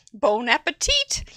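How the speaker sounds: cheerful attempt at French with a rising end; American-accented French; bad French. Shown as a demonstration. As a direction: say it in amateur French. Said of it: "It's the way I speak".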